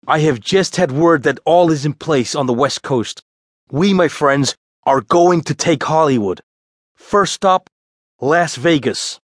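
high, proclaiming voice; showman's declaration, building to the last words; Danny as rallying leader. A narrator's reading. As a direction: announce the grand plan to your troupe. Danny's announcement to his cast.

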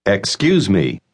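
isolated syllables built backwards into the phrase, long pauses between. Shown as a demonstration. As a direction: model each piece separately for learners to repeat. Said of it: "va a repetir esta expresión sílaba por sílaba". (sílaba por sílaba, empezando por la última)

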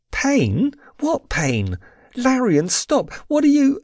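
high, panicky questions and protest; rising alarm, cut off mid-question. A narrator's reading.

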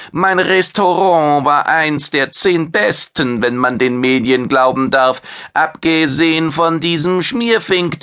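a vain chef bragging about his fame; proud alien chef. Acted. Maitre brags about his restaurant.

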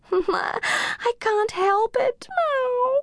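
high, slow cat voice meowing. A narrator's reading. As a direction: play the cat, high and meowy. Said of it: "meowed Ginger".

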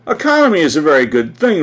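smugly pleased, voice lifted; complacent. A narrator's reading. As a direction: pronounce it with lofty self-satisfaction. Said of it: "remarked the Duchess complacently".

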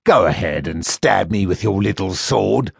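mock the captive boy like a smug slaver; sneering first mate. First mate taunting the boy he sold, sneering.

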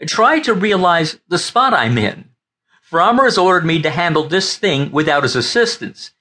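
begging for understanding, close to crying; verge of tears. Acted. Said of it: "now sounding on the verge of tears".

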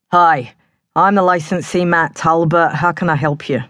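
friendly Cockney publican; thick Cockney accent. Acted. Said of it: "His Cockney accent was as thick as mud".

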